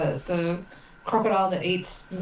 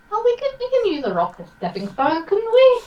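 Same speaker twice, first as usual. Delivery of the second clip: excited; 8 dB louder than usual. Real, not acted. Excited idea for crossing.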